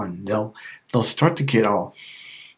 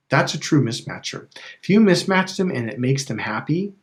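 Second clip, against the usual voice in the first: ordinary talk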